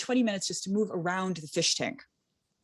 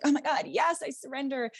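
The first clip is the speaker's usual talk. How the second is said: high, breathless mock giving in; hammed-up rapture, pitched up; mock swooning surrender; 9 semitones higher than usual. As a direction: swoon dramatically as if carried off. Retold swooning at big men.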